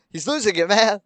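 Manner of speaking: teasing exclamation. Acted. Teasing exclamation after laugh.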